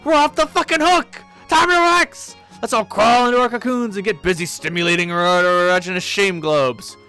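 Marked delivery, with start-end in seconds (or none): 0.0-4.2 much higher and louder sarcastic cheer; mocking announcement. Karkat mocking Vriska's advice to the whole memo, loud and sarcastic. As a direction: ham up a fake rally cry. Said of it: "Super Future Visca has an important life lesson".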